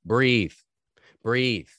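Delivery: calling breathe to a hurt man; firm command. Retold or imitated. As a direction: urge him firmly to breathe. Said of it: "first thing out of my mouth is".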